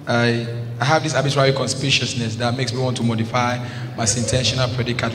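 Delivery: rattled off like a memorised speech; crammed recitation. Acted. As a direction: recite big words learned by heart. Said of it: "if you cram something, you dey talk am".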